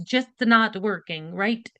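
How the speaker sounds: lightly put-on Italian accent; badly faked Italian lilt; a hint of mock Italian; terrible Italian accent. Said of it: "my really terrible Italian accent".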